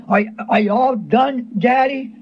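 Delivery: mildly gentle, careful asking; retold gentle child's question. Daughter holding back tears to Daddy, gentle. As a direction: ask it real gently, as the girl did. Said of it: "Real gentle".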